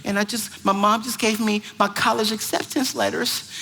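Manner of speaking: put-on hesitant, small girl voice; teen girl. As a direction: imitate a timid girl confiding by phone. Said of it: "And she said".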